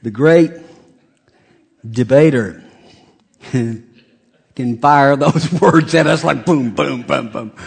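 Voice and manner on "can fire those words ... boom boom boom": laughing mock. Mocking wife's rapid-fire words.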